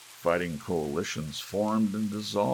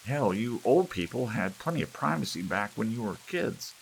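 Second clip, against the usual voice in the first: put-on raised, higher voice of a sore young man; heated complaint; 6 semitones higher, 5 dB louder than usual. A narrator's reading. Young man arguing with elders, heated and raised. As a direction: gripe loudly at the old folks. Family quarrel over privacy.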